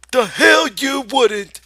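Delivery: high, loud, slow sneer; scornful rabbit retort. Acted. The rabbit sneers at Lenny, slow loud retort. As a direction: spit it back.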